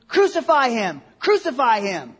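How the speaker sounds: loud mock crowd cry; crowd shouting. Preacher acting people shouting in the gospel, loud cry. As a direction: call it out like a crowd. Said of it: "when people are shouting".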